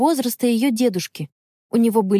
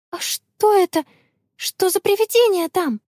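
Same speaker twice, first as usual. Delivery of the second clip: high, bravely raised question; bold question; 11 semitones higher than usual. Acted. Connie asks the old man about the ghost, bold. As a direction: ask it bravely, pitched high. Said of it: "храбро спросила она".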